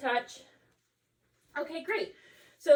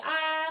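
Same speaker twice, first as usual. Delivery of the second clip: saying ahh; 4 semitones higher, 4 dB louder than usual. Shown as a demonstration. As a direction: open drawn-out ahh.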